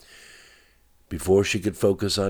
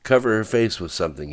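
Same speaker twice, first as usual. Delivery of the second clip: urgent raised order, higher and louder; controlled narrated yell, pitched up; screamed; 5 semitones higher, 5 dB louder, faster than usual. A narrator's reading. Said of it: "he screamed".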